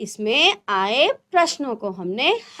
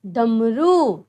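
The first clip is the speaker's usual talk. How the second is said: slowly spelled out; 3 semitones lower, much slower than usual. Shown as a demonstration. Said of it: "और पढ़ना तो हमें सबको आना है".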